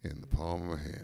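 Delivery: soft whispered finish. Real, not acted. Cohost whispers the end of Richard's line. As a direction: breathe it under your voice.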